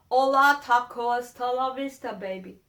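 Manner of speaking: loud, hammed-up gringo Spanish; mock the tourist's stock Spanish words again; a lighter mocking tourist Spanish; stereotype tourist Spanish. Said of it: "That's not trying".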